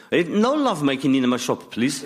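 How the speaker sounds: put-on mild Greek accent, laughing; Greek kebab man. Shop owner to fighting customers, mild Greek accent. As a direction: tell them off in a light Greek accent. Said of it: "they'd say".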